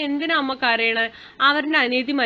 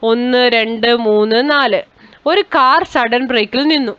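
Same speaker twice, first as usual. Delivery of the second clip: loud, projected classroom storytelling; story narration; 8 dB louder than usual. Acted. Teacher reading a short story to pupils, story narration. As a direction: read the story aloud in full voice.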